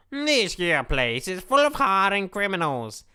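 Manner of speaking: slow lightly drawn American cowboy voice; a hint of a Western cowboy, taking it slow. Streamer trying a cowboy voice for the character, slow cowboy twang. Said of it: "how do I do, like, a cowboy voice?".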